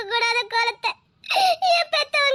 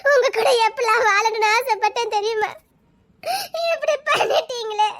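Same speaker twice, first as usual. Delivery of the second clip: through tears, heartbroken; tearful lament of lost love; sobbing reproach. Acted. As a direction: ask why, crying in disbelief. She sobs out her reproach.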